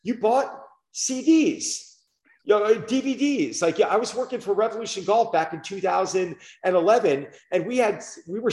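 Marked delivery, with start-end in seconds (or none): 0.0-3.6 mock bewilderment. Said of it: "people would be like".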